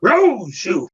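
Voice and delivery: high, drawn-out mock yell of a name; imitated director's scream. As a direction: mimic the director hollering at him. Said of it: "looked me straight in the eye and said".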